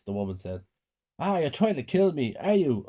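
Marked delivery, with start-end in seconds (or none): 1.2-2.8 high, alarmed accusation; girl panics as the vampire grips her wrists, high and alarmed; panicking. A narrator's reading. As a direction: blurt it out in panic. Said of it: "I said, panicking".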